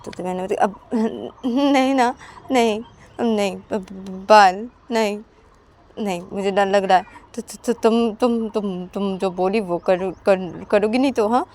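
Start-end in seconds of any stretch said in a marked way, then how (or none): 0.5-7.0 scared refusal. Acted. Ananya scared to lie down. 7.3-11.5 stammering friend. Acted. Payal stammers a reply.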